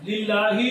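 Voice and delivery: "للہ" recited with a light, clear lam; thin lam. Shown as a demonstration. Teacher showing lam after zer, thin lam. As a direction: keep "للہ" thin and open, "lillah". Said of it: "اس کو بریک پڑھیں گے".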